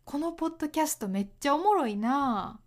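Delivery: quick, casual Kansai-accented remark; 関西弁. Shown as a demonstration. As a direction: toss it off briskly in Kansai dialect. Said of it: "関西では、". (関西弁で早口に軽く)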